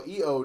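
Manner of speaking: Hijo as "ee-oh", no H sound at all; mispronounced Hijo. Real, not acted. Host trying the name, saying Hijo as "ee-oh". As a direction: say Hijo with the J dropped. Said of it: "The H is silent and the J makes an H sound".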